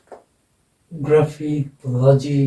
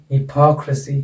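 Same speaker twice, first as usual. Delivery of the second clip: "हिपोक्रेसी" as hi-POK-ruh-see, strong "पो"; stress on PO. Shown as a demonstration. Teacher gives a further example, stress on PO. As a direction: lean on "पो" in "हिपोक्रेसी". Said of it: "यहाँ पर लग जाएगा".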